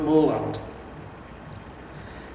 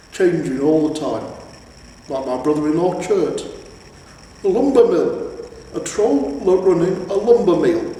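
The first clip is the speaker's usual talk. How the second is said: a troll complaining about his in-law, rising; hammed-up aggrieved troll; indignant troll; 3 semitones higher, 4 dB louder than usual.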